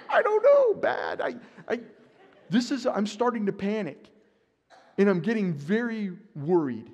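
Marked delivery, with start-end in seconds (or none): 0.1-1.8 much higher, louder flustered answer; panicked stammer. Retold or imitated. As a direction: stumble like a caught, scared kid. Panicked reply in imagined scene.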